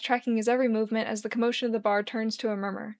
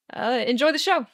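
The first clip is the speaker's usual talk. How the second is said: Charlie voice; 3 semitones higher, 4 dB louder than usual. Acted. Charlie leaving the table.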